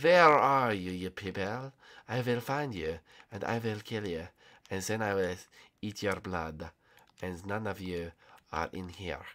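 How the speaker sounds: put-on low, soft menace in a French accent; mock-French villain murmur; French Coop accent. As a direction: stalk your prey in a put-on French accent. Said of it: "talking in the French Coop accent".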